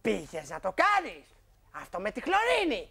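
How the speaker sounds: low, slow mock accusation. Husband accusing mother with bleach, slow and low. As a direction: drag it out like an accusation. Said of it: "της λες".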